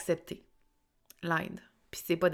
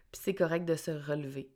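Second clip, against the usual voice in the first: stuffy nose after crying; snotty crying. Real, not acted. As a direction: speak through a blocked nose after tears. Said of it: "j'ai pleuré, j'ai le nez bouché".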